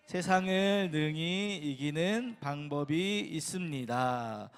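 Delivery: 천천히 또박또박 제목 읽기; slow title reading. Acted. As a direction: read the title out slowly and deliberately. Reads sermon title slowly. (제목을 천천히 읽듯이)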